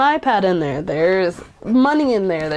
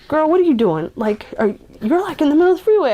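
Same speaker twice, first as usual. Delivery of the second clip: guys calling out; 6 semitones higher than usual. Retold or imitated. Guys pulling over call to a girl on the freeway, lightly voiced alarm. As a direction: call out to a barefoot girl on the freeway, rising fast.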